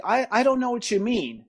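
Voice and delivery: playing coy. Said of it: "I played coy".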